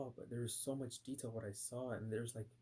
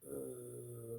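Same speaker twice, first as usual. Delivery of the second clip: softer imitated deadened 'uh'; lifeless groan; 5 dB quieter than usual. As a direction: groan it out like the dead. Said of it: "completely dead".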